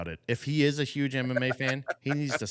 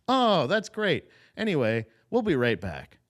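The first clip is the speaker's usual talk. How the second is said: mock dismissive host; 5 semitones higher, 4 dB louder than usual. Podcaster mocking a host ignoring a fighter's answer, mock dismissive. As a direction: brush them off, lightly hammed.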